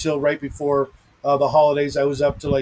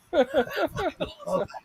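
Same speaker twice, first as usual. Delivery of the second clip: laughing; 11 semitones higher, 5 dB quieter than usual. Real, not acted. Laughing after the quote.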